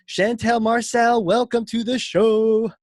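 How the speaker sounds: loud, slow, hyped guest welcome; hype man welcome. Acted.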